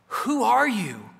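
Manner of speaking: slow, hesitant question into the dark; a frightened little boy, lightly voiced; timid call into the dark. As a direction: ask it slowly, unsure who is there. Boy calls into dark woods.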